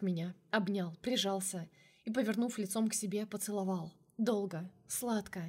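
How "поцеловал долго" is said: usual speaking voice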